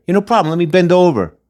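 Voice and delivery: mock a rapper. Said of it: "That's how you get your picture taken".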